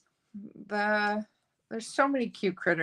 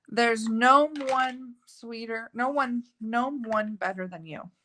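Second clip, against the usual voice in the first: stumbling read; 2 semitones higher, slower than usual. Real, not acted. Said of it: "why is that so hard for me to say".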